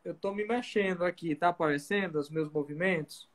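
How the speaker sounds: glitchy robot voice from a lagging stream; choppy robotic sound, like a bad connection. Real, not acted. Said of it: "tu tá parecendo um robô".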